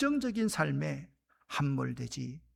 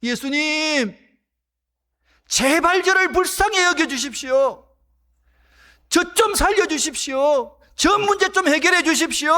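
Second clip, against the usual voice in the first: loud pleading shout, much higher; desperate cry; 9 semitones higher, 11 dB louder than usual. Acted. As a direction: cry out for mercy at full voice. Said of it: "소리를 지르기 시작합니다".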